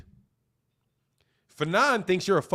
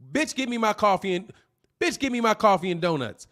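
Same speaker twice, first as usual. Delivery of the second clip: a blunt, crude take on a boss's order, in his usual voice; crude boss demand. Retold or imitated. Speaker imitating a crude boss, a plain blunt demand. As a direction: bark it out like a rude customer. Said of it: "they don't say it like that".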